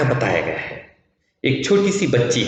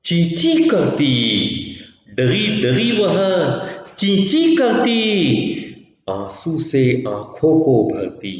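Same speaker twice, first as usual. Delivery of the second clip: sing-song poem recitation. Acted. Teacher reciting the poem to her pupils, sing-song. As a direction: chant it like a children's rhyme, stretching the vowels.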